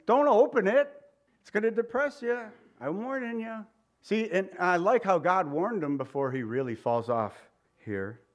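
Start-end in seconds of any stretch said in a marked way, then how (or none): 0.1-3.7 stern warning. Acted. God warning Cain.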